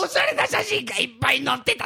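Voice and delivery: mock wailing lament.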